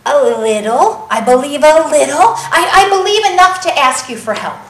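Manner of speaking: stammering, emotional insistence with halting admissions; desperate plea. Acted. Father bringing his son to Jesus, stammering and desperate. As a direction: plead haltingly, a touch desperate. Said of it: "so much desperation".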